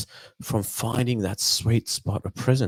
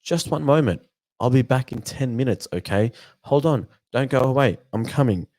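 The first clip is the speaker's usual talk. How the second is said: mock excuse; 4 semitones higher than usual. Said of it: "that's when I'm likely to hear".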